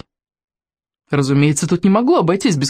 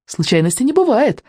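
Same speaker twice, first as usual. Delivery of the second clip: higher-pitched, kindly correction; mildly sweet, raised voice; gentle reminder; 8 semitones higher than usual. A narrator's reading. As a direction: remind him affectionately. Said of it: "ласково напомнил Рыбьянок".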